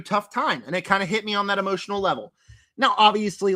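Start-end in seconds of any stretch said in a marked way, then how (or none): 2.8-3.5 voice cracking. Real, not acted. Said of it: "my voice cracked again".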